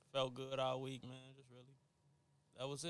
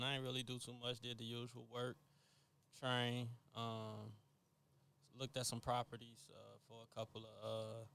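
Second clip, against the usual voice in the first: much softer, slightly lowered voice; Billy D Williams hush; 3 semitones lower, 9 dB quieter than usual. Real, not acted. Telling the co-hosts about a low-key week, very softly. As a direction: let it sink low and quiet, trailing into hesitation. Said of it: "your voice was a little".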